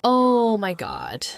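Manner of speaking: breathless whispered oh my god; awed whisper. Acted. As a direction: hush it out in shock. Whispered reaction to overheard man.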